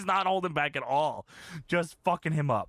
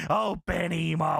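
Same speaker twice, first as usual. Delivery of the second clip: Vince. Retold or imitated. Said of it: "I'll never forget".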